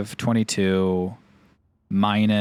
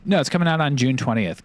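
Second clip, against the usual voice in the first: raised sarcastic insistence; mock insistence; 5 semitones higher, 4 dB louder than usual. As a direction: insist it's coming, mockingly. Mocking fan questions.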